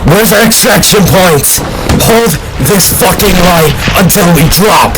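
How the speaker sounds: low, forceful battlefield yell; shouted battle orders. Acted. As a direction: roar orders over the fighting. Officer yells orders in battle.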